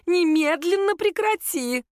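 high, slow, emphatic scolding; sharp rebuke. A narrator's reading. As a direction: order a son to stop, drawing it out. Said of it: "скинулась свекровь".

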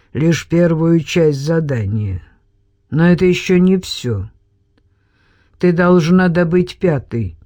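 hard, dry robot-like voice; lightly voiced cold robot. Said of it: "походил на голос робота".

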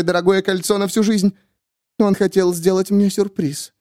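high, fervent woman; cling to the belief; Miriam voiced. A narrator's reading. Miriam telling the narrator about Danny, high fervent.

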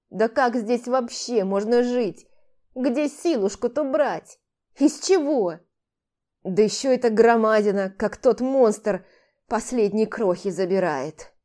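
a hint of a complaining elder; old man complaining.

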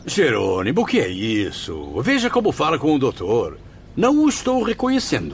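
rising in pitch to a high, shocked reproach; shocked rebuke. Acted. The Viscount scolds Jerônimo for disrespecting the doctor, in shocked reproach. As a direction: scold your friend, stunned by his rudeness. Friend rebukes rude patient.

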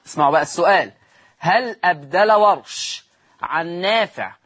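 deliberate, stretched-out reading of a question; slow dictation. Shown as a demonstration. Teacher poses the written question to students, slow dictation. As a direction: read it out slowly for note-takers.

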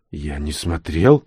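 low, slow sheepish mumble; guilty. Acted. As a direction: hang your head and admit it. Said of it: "виновато понурил голову боец".

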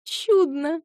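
high, purring coo. Acted. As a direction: coo it sweetly. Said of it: "проворковала Иоанна".

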